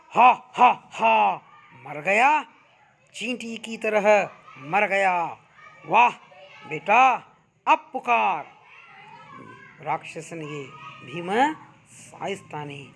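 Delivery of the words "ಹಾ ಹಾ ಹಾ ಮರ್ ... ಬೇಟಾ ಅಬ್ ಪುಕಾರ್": loud victorious laughing shout; triumphant roar. A narrator's reading. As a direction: roar in triumph over the dead demon. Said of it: "Bhim ಜೋರ್ ಸೆ ಪುಕಾರ್ತಾ ಹೈ". (ಜೋರಾಗಿ ವಿಜಯದ ಅಟ್ಟಹಾಸ)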